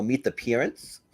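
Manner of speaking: attempted New Zealand accent with a rising end. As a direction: fake Kiwi vowel in Parents. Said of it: "I gotta keep trying it".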